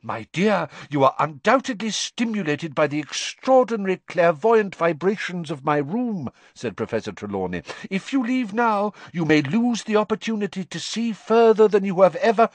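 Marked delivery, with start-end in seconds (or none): 0.0-6.3 a dreamy fortune-teller luring a student; misty seer. A narrator's reading. Trelawney's voice in the reading. 7.9-12.5 a dreamy fortune-teller luring a student; misty seer. A narrator's reading. Trelawney's voice in the reading.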